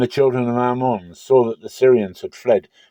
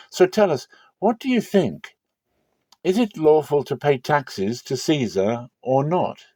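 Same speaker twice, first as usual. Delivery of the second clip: lightly voiced questioners, pitched higher and rising; Pharisees' flattering question; 5 semitones higher than usual. Disciples of the Pharisees testing Jesus, lightly voiced higher. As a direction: sweet-talk him, then spring the trap question.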